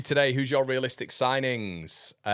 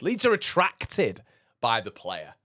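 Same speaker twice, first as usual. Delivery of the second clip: mock hype; 5 semitones higher, slower than usual. Mocking transfer rumour hype.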